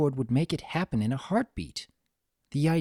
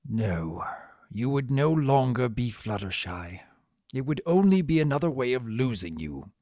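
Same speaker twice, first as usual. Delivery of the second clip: subdued. Acted. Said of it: "hung his head".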